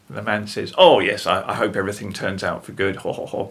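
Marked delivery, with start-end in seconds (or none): 0.8-3.0 imitated jovial brush-off; loud, hearty "oh yes", then easing off; joking dismissal. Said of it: "makes a joke of it". 3.0-3.5 imitated "ho ho ho" chuckle; breathy fake laugh making light of it; put-on dismissive chortle; mock jolly laugh. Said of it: "makes a joke of it".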